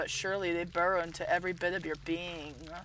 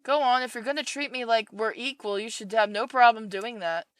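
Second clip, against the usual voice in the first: a raised, pushy mother voice; controlling mother; 3 semitones higher, 5 dB louder than usual. Acted. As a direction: lean in as the smothering mother. Mother voice while reading.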